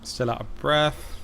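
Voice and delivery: slow, drawn-out, impatient; impatient drawl. Real, not acted. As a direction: stretch each word out while waiting. Waiting for character to recover.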